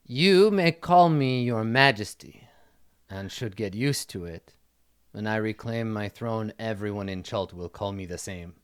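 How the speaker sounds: measured, regal pronouncement; imperious princess. Acted. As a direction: lay down the law like exiled royalty.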